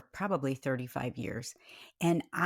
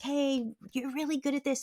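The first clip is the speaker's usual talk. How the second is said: retold cheering; 8 semitones higher than usual. Coaches cheering him, retold.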